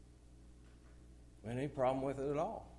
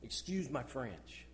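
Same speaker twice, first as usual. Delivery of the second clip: mock polite quote; 2 semitones lower, 5 dB quieter, slower than usual. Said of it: "How do you like this one".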